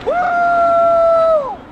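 high excited cheer; excited whoop. Real, not acted. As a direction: let out a big happy woo. Excited whoop mid-stunt.

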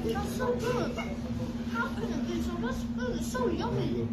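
with food in mouth; mid-bite mumbling; chewing while talking. Real, not acted. Seen 1: Bites pizza just before; holds slice at mouth while talking.

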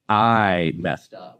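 slow, rueful laugh through the words. Retold or imitated. Realizing the job application mix-up, a slow laughing admission. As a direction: laugh at your own mistake, drawn out.

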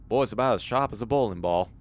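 quick southern cartoon quip; fast cartoon southerner; Foghorn Leghorn. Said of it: "listen to a lot of Foghorn Leghorn".

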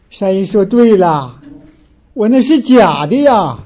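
slow, drawn-out mock lament; retold tearful confession. Daughter-in-law confessing her fake filial piety, retold tearfully and slowly. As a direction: imitate a weepy admission, dragging the words out. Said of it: "他就哭了， 又哭了".

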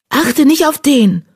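high, slow, scornful hiss; spitting anger. Acted. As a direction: spit out a haughty warning. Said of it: "fauchte Laura".

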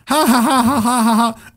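high, forced ha ha ha; hammed-up theatrical laughter; mocking stage laugh. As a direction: cackle down at the villain. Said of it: "are going ... kind of laughing".

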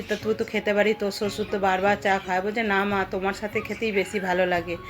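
ordinary delivery

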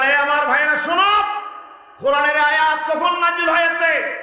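high, ringing call to the brothers; retold roar. Companion calls his brothers to listen, retold roar. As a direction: imitate a commanding cry to a crowd. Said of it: "হুঙ্কার দিয়ে বললেন".

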